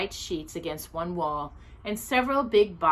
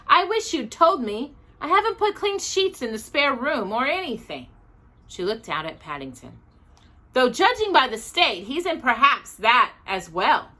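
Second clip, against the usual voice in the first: a lightly voiced flustered housekeeper, higher; fussy housekeeper; 5 semitones higher, 4 dB louder than usual. A narrator's reading. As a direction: fuss over the spare room. Housekeeper Mrs Bird voiced.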